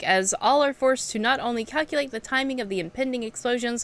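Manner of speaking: lightly voiced gruff old trainer; a hint of a weathered old instructor; old veteran NPC voice. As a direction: read it like a seasoned mentor sizing up a recruit. Reads game NPC dialogue aloud.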